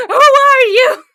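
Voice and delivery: laughing. Real, not acted. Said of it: "mock repeat".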